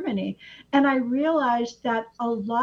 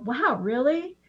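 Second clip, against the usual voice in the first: mock curious challenge; 3 semitones higher than usual. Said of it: "to challenge somebody and go".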